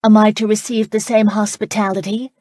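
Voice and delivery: loud, bold and high-pitched challenge; bold question. A narrator's reading. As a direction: Charlotte boldly demands to know her own fate, loud and high. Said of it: "Charlotte boldly asked".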